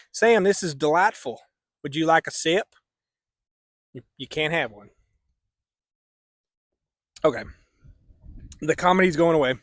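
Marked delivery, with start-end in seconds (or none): 0.1-2.7 a slightly higher, fond mock cowboy voice to the dog; talking to his dog. Owner offering his dog Sam a sip, playful cowboy voice. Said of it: "Sam's my dog". 3.9-7.4 put-on cowboy accent. Vlogger hosting his book review in a mock cowboy accent. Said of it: "I'll drop the accent".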